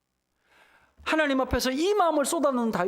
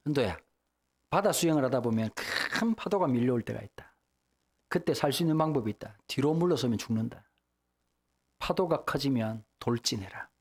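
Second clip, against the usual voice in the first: 큰아버지 말투; 9 semitones lower than usual. Retold or imitated. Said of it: "큰아버지가 그런 얘기를".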